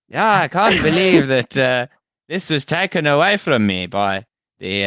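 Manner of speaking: mock Zimbabwean accent. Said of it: "That was white Zimbabwean".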